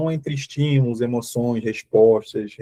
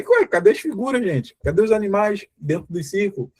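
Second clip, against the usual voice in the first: falsa surpresa; 6 semitones higher than usual. Pretend. Surpresa encenada com figuras sumidas.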